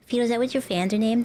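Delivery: breathless shocked whisper; gasping whisper. Real, not acted. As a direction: gasp the name in disbelief. Shocked at fan name.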